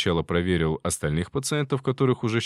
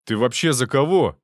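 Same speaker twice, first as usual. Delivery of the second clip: louder indignant demand; lashing out; 3 semitones higher, 6 dB louder than usual. Acted. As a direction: round on him angrily. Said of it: "обрушился на него Соколов".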